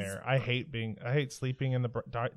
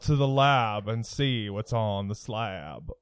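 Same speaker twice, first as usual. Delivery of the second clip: radio DJ voice; 3 semitones lower than usual. Retold or imitated. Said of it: "very good radio D J voice".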